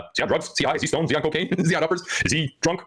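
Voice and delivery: high, sing-song mock of the comments; mocking commenters. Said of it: "I read some of the comments".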